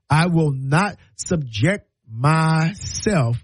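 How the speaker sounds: very slow, word-by-word refusal; emphatic refusal. Acted. Refusing relatives' harangue at Christmas, slow and emphatic. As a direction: space out every word, laying down a boundary.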